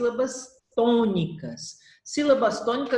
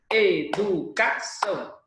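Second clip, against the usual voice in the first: Educação slowly, each syllable separate; slower than usual. Shown as a demonstration. Teacher showing a polysyllable to the class, Educação broken into syllables. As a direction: break Educação into slow, even beats.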